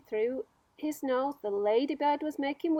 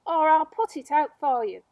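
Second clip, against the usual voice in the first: threatening; 4 semitones higher, 8 dB louder than usual. Acted. Centipede threatening.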